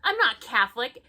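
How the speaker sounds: high, loud, laughing through the words; laughing question. Real, not acted. Asking the reviewer a question while laughing hard.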